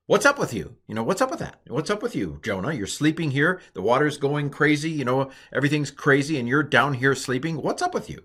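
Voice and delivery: high-pitched, exasperated lines for the ship captain; a hint of an annoyed sailor waking Jonah; sailor scolding Jonah. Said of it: "and he said to him, quote".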